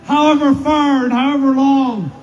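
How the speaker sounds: rising rally oratory, punching each line; rally a cheering crowd; roaring rallying speech. Real, not acted.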